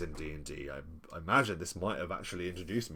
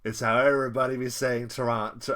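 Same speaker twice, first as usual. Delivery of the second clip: imitating a Toronto local, "Toronto" clipped to "Tor-ah-nuh"; casual mock local slang; playful Toronto local impression; Toronto local accent; 5 semitones higher, 8 dB louder than usual. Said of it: "You're doing an accent".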